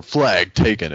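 imitated standard game announcer. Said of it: "like a different announcer".

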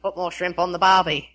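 understated Aussie delivery; Australian accent. Shown as a demonstration. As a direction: stock Australian line, played down. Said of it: "do that one again".

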